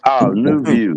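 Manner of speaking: "New View" called out high and loud; hyped shoutout to the "New View" bar; shouted shoutout. Shown as a demonstration. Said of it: "You gotta shout that right".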